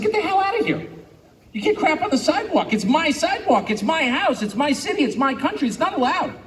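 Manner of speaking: high-pitched indignant scolding; mock outburst. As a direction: shoo him off the sidewalk, high and riled. Acted outburst at vagrant.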